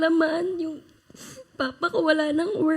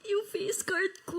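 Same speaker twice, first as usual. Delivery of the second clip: slow, softer, choked with tears; half-laughing through real tears; teary; 5 semitones higher, 8 dB quieter than usual. Real, not acted. Guest tearing up on camera. (mahinang boses na naiiyak)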